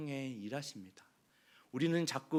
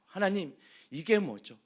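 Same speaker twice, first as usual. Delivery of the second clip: grievance building to a higher, louder protest; Moses complaining to God; 8 semitones higher, 8 dB louder than usual. Acted. Moses grumbling at God in the desert, rising protest. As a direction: pour out forty years of complaint. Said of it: "얼마나 원망하고 불평했을까요".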